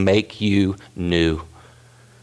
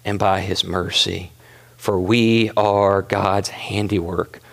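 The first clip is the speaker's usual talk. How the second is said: slow tender emphasis; 4 semitones lower, slower than usual. Acted. Repeated key phrase, slowed.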